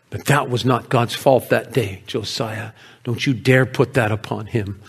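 low, restrained scolding; stern rebuke. Acted. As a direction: warn him firmly without raising the voice. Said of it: "she was rebuking me that day".

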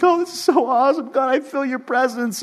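a light mock of emotional praise; gushing awe. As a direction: relive the overwhelmed worship moment. Recalling emotional worship moment.

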